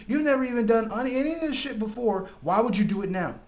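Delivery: doubtful inner voice. Retold or imitated. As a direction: needle yourself like your own doubt. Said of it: "that doubtful voice that says".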